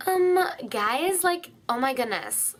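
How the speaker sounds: mock a put-on high voice; fake high voice. Showing viewers the annoying fake high voice. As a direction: start high, then let it drop. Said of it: "it's, like, a fake voice".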